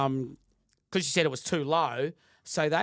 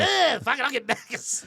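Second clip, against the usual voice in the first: exasperated giving up; 9 semitones higher, 6 dB louder than usual. Retold or imitated. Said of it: "I'm like".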